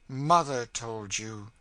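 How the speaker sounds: "Mother" drawn out slow and loud, bitterly; bitter stress on Mother. A narrator's reading. Cassie scorning the girl's advice, bitter emphasis on "Mother". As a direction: lean hard and scornfully on "Mother". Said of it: "thrilling and bitter emphasis on the word mother".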